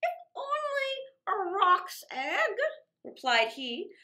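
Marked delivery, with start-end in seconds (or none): 0.0-2.6 higher, slow and sly, drawn out; scheming false Fatima. Acted. False Fatima tempting the princess, slow and sly. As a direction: dangle the idea slowly.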